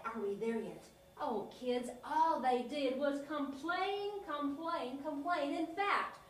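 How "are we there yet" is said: "Are we there yet?" dropped much lower with a falling end; low grumble. Acted. Israelites nagging Moses, low weary grumble. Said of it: "And they'd say".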